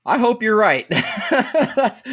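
high, laughing delivery; real laugh bubbling up, pitched high; amused doubt. Real, not acted. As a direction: break into laughter as you say it. Laughing at a bold prediction.

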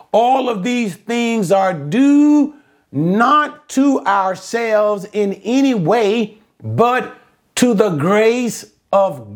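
drawn-out, weighty sermon delivery; emphatic preaching. Real, not acted. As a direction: preach it phrase by phrase, stretching key words. Preaches the verse with force.

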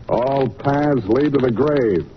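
slow, hammed-up stage recitation; mock Shakespeare. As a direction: intone it like a ham actor quoting a tragedy. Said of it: "Ophelia, Act Six".

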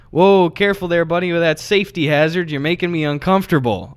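jokey mock warning to a stranger; dumb dad joke. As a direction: kid around like a corny dad. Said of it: "a dumb dad joke".

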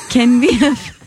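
slow, halting Korean accent attempt; tentative put-on South Korean English. Shown as a demonstration. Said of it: "a South Korean".

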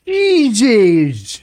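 high startled Jesus; shocked exclamation. Real, not acted. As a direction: blurt it out in shock. Reacting to axe video.

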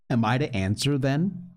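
tremulous. Acted. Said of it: "with a very tremulous voice".

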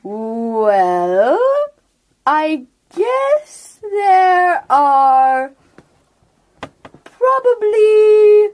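a lightly voiced ancient turtle, slow and drawn out; slow old turtle. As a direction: speak as an unhurried old turtle, letting each word sink in.

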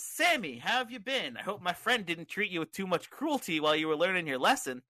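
high greeting settling toward normal pitch; Bray Wyatt. Acted. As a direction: welcome a guest like a children's host. Plays Bray Wyatt welcoming Sami.

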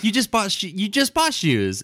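wife's accusing voice, high. Retold or imitated. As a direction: play the wife catching him out. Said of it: "and she was like".

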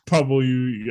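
"probably" ending in a "-yoo" sound; mock mispronunciation. Co-host teasing the reader's speech, mock mispronunciation. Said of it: "it just sounds like".

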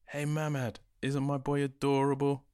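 high, loud gushing dad; proud father. Acted. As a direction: beam with pride over the baby. Proud father showing his baby.

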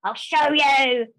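slow, gritted, mild mock growl; defiant vow. Her stubborn inner voice answering the doubters, slow and defiant. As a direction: spit out a defiant promise. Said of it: "I've got that going".

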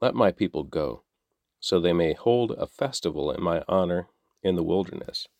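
measured, even reading of a Bible passage; scripture reading. A narrator's reading. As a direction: read the text to listeners steadily. Scripture reading before plain sign-off.

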